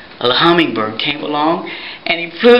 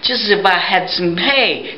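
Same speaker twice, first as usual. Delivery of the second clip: mule voice; 4 semitones higher than usual. Acted. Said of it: "And he said".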